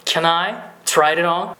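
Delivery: slow model of "try it on", t flapped like a Japanese r; teacher slowly modelling "it on" joined by a tapped t; American-style flapping. Shown as a demonstration. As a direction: link "try it on" as try-ri-ron. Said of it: "これを英語っぽく言うといい".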